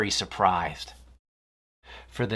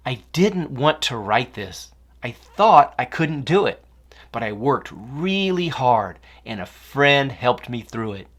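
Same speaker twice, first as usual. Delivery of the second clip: poem recital; 3 dB louder than usual. Acted. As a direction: read the rhyme out like at a school show. Jordan reads his poem aloud.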